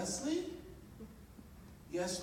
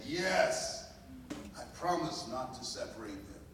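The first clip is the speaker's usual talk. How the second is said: firmer, a touch louder promise; stronger voice; 3 dB louder than usual. Retold or imitated. Mother answering the birth mother in a stronger voice. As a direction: answer with a steadier, stronger vow. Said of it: "said in a stronger voice".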